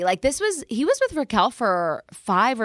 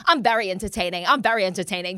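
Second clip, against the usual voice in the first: put-on British accent; 4 semitones lower, faster than usual. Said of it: "his British accent".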